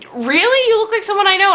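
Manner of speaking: put-on Italian accent. Italian man thinks he knows her, imitated Italian accent. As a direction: imitate a puzzled Italian counterman. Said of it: "in this very thick Italian accent".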